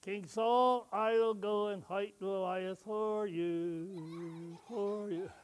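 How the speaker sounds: laughing through a slow retake; half-laughing recital. Acted. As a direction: giggle through the line.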